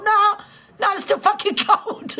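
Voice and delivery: high, loud mock complaint, slowed; mock whine. Mimicking a local complaining about summer cold, high whine. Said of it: "and you're like".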